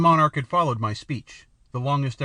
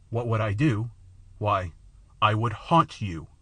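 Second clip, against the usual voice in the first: grim; 3 semitones lower than usual. A narrator's reading. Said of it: "fixing my eyes grimly on the king".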